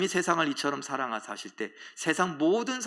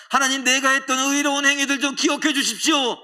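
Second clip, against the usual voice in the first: higher, louder pleading prayer with a touch of tears; tearful prayer; 9 semitones higher, 6 dB louder than usual. Acted. Hezekiah faces the wall and prays to God, tearfully pleading. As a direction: plead with God, half weeping. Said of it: "엉엉 울면서 하나님 앞에 기도했습니다".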